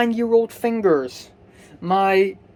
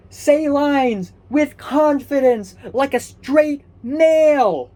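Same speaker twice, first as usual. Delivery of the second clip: mock confident voice; 5 semitones higher, 3 dB louder, much slower than usual. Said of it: "I'm in drama club".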